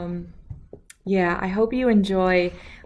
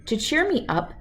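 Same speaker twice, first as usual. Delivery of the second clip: put-on calm, clear storybook reading for kids; reading a story aloud; 2 semitones higher, 3 dB louder than usual. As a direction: read it like bedtime story time. Reads picture book aloud.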